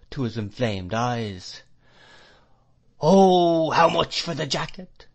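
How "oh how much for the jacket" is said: high wail with a long, loud opening; crying out whiningly. A narrator's reading. Old man after examining the jacket, high whining cry. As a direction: swell like a gust of wind, then ease. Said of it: "cried the old man".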